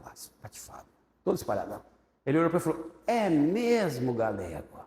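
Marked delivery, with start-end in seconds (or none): 3.0-4.8 slow pastor drawl. Retold or imitated. Pastor's slow dry reply.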